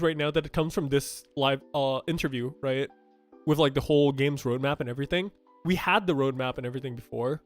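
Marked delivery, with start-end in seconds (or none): none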